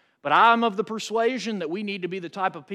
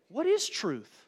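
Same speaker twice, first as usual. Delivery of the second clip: sincere question; 2 semitones higher, 5 dB quieter, slower than usual. Shown as a demonstration. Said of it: "You can read it like Pilate was saying".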